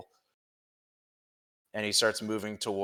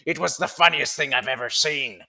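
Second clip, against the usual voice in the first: amused; 5 semitones higher, 5 dB louder than usual. Acted. Turch finishing his funny story.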